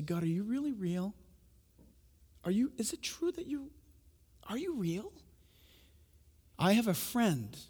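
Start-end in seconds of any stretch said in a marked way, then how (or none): 0.0-5.1 soft, half-whispered plea; hushed prayer. Retold or imitated. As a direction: ask God quietly and earnestly. Voicing an intimate prayer.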